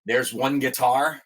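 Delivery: slow, drawn-out quote of the song line; song line quoted. Retold or imitated. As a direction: stretch it like the singer does. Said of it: "when he says".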